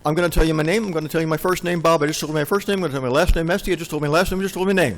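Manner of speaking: mock formal self-introduction, every part announced; formal XML speak. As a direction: introduce yourself in nested tags, mock-solemn. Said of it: "I wanted to be a little bit more formal".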